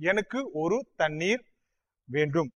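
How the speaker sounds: எனக்கு ஒரு தண்ணீர் வேண்டும் run together quickly; quick natural-speed model; fast fluent sentence. Shown as a demonstration. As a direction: rattle it off like a native. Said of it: "on dit pas".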